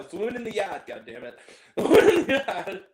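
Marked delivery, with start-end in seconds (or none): 0.1-0.9 put-on Boston accent. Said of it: "I refuse to call it what they want". 1.8-2.8 put-on Boston accent. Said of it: "I refuse to call it what they want".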